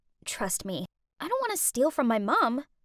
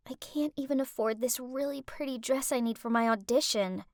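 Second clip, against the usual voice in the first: sniffly mock sadness; 5 dB quieter than usual. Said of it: "I sniffed".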